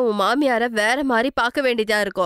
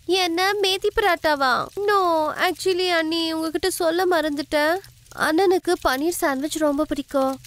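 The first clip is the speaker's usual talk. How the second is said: put-on higher, sweetly sly young woman's voice; a pitched-up sweet-talking sister-in-law; scheming sister-in-law; 5 semitones higher than usual. Kavya voiced in story.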